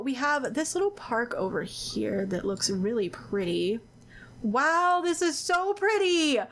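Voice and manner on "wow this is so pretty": excited squeal. Real, not acted. Gushing over a pretty park.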